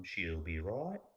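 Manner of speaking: imitated Aussie "She'll be right", rising at the end; Australian accent. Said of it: "say it in different ways".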